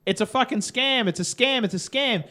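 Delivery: mock exasperation. Retold reply to scam robot.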